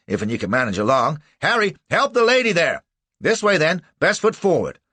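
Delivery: high, loud rustic man; helpful townsman. A narrator's reading. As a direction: cheer the wounded man along. Townsman voiced, leading them on.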